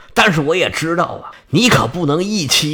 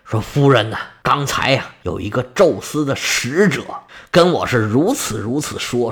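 lightly acted panting, pitched low; winded old husband; 7 semitones lower than usual. A narrator's reading. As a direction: explain it to your wife while catching your breath. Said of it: "一边喘一边跟夫人说".

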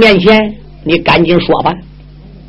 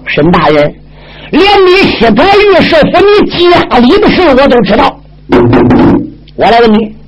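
lightly voiced stern judge, pressing hard; Bao Gong's voice. Bao Gong confronting Shen Guqing before the emperor, stern. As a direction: accuse him point by point like an upright judge.

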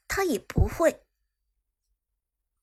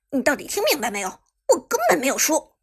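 serious tone; 3 semitones higher, 7 dB louder, faster than usual. Acted. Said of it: "用一种严肃的口吻说道".

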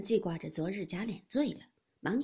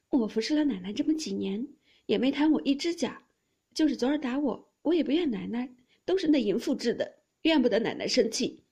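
high, loud aggrieved plea; wounded maid pouring out her devotion; tearful protest; 4 semitones higher, 6 dB louder than usual. A narrator's reading. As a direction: plead loyalty as tears come. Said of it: "说着也滴下泪来了".

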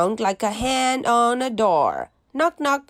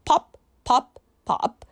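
1 cork popping; 3 semitones higher than usual. Pretend. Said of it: "He can sound like a cork".

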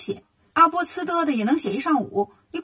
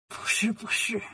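softer, lightly amused denial; mild chuckle; 2 semitones lower, 4 dB quieter than usual. A narrator's reading. Land god reassures Wukong he is mistaken, lightly chuckling. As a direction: deny it with a touch of a chuckle. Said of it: "土地笑了".

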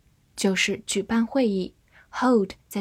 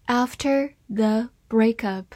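slow, careful reading aloud; slower than usual. Shown as a demonstration. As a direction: read it slowly for learners. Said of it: "好，慢慢来读". (慢速朗读)

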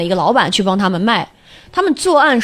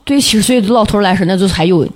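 put-on dry Shaanxi-accented guard; deadpan in Shaanxi dialect. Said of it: "我就用陕西话说啊".

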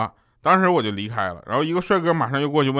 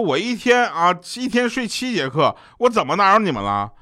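indignant classmate; 6 semitones higher than usual. Retold or imitated. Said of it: "他说".

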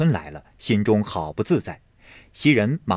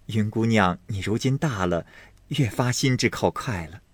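softer, with a laugh at the start; quiet amused maid; soft chuckling maid; 4 dB quieter than usual. Acted. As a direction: chide her gently through a laugh. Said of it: "袭人在旁嗤的一笑，说道".

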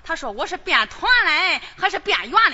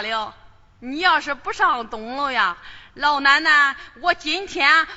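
put-on lower, slowed old-granny scolding voice; imitating grandma; 3 semitones lower, slower than usual. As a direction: put on grandma's voice to scare him. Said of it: "我学学老奶奶的声音".

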